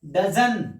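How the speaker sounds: "डजन" for doesn't, no final t; short spoken pronunciation. Shown as a demonstration. Teacher repeating the answer for learners, contracted to डजन. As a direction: end "डजन" on the n, t dropped. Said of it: "इसका क्या होगा".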